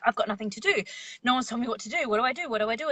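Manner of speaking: restless mind. Retold or imitated. Meditation teacher mimicking the idle mind for viewers, lightly fretful.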